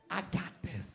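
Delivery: low, quiet self-assured line; lightly voiced wife. Husband quotes wife's creed in low cool voice. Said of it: "You know what the creed is?".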